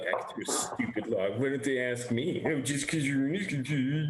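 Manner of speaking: whiny, tearful grumble played for laughs; mock sobbing. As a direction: feign a sob while complaining. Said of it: "Are you actually sobbing in the inn?".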